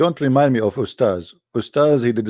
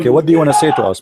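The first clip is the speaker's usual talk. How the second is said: to someone hard of hearing; 5 semitones higher, 6 dB louder, faster than usual. Real, not acted. Caller can't hear, speaks up.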